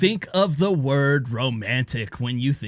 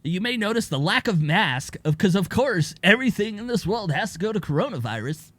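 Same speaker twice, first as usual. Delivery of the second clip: high nasal news read; nasally newscaster voice; 3 semitones higher than usual. Pretend. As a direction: read it like a cheesy local anchor. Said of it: "That's the nasally Mike voice".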